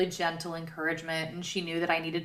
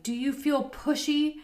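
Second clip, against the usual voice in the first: lightly voiced midwife, higher pitch; a gentle, higher-pitched imitation of the midwife; midwife's question; 7 semitones higher than usual. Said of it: "she comes in and she's like".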